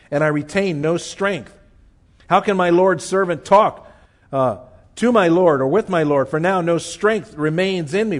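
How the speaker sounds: measured, solemn reading of the passage; scripture reading. Acted. Preacher reading Daniel's vision to the congregation, solemn. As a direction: read the vision as sacred text.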